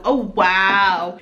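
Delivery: ordinary talk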